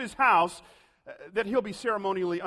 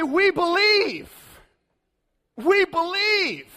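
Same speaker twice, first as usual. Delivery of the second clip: higher, louder, slow proud declaration; mock the easy confidence of churchgoers; smug believers; 10 semitones higher, 6 dB louder, slower than usual. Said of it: "And we say".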